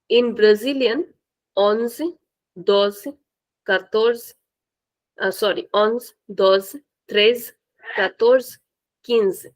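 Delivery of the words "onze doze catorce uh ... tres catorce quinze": onze, doze, catorce with a little extra vowel at the end; extended endings. Shown as a demonstration. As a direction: stretch out the last sound of each number. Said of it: "Little bit of extension at the end".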